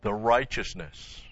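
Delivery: "righteousness" drawn out slowly; stress on RIGHTEOUSNESS. Shown as a demonstration. Preacher naming the key word of the verse, "righteousness" slowly stressed. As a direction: set "righteousness" apart, slowly and deliberately. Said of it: "the emphasis is on".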